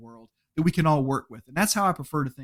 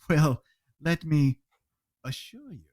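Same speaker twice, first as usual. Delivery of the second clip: insidious voice; slower than usual. Retold or imitated. Retelling a German comedian's punchline, slow and insidious. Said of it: "this absolutely insidious voice saying this".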